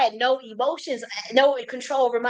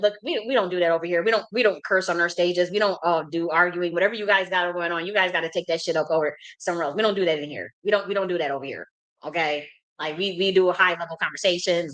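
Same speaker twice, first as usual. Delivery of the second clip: lightly voiced moderator, lower and matter-of-fact; stern room moderator; 5 semitones lower than usual. Moderators kicking her out of the professional room, mildly stern. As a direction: lay down the house rules in a lower voice.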